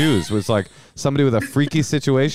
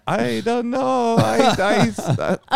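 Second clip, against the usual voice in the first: timid stammering guy; 9 semitones higher, much slower than usual. Retold or imitated. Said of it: "And the guy's like".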